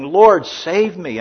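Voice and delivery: high, loud, slow plea for rescue; desperate cry. Acted. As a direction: cry out like a sinking man. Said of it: "he cried out".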